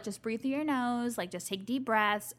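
softly voiced, a hint of calming nurse; soothing staff. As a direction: ease the patient gently. Dental staff soothing her.

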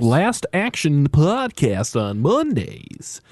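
slow, stretched, oddly sung plug; weird drawn-out read. Real, not acted. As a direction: drag out every word strangely. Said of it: "I don't know why I said it like that".

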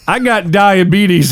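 slow, lightly voiced old man; Wilford Brimley impression. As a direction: drawl it like an old cowboy.

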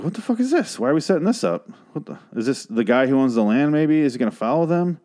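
high, incredulous what-the-hell; reliving his confusion at the mystery foot; baffled outburst. Retold or imitated. Viewer reacting to a strange foot in frame, baffled and high.

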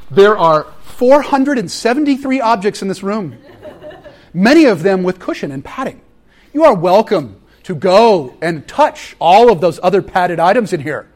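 exasperated tour guide. Retold or imitated. Pastor voices himself scolding visitors.

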